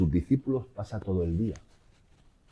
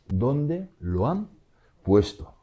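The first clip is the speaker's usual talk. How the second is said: drawn-out plea; 5 semitones higher, 3 dB louder, much slower than usual. Acted. Preacher voicing Mary's plea.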